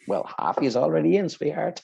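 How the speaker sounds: high, teasing mock-sweet voice; cheeky flirty reply. To women knocking at his door, mock-sweet tease. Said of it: "I'm like".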